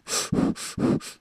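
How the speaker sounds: heavy breath into the mic; audible breathing. Real, not acted. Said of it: "Can you hear me breathing?".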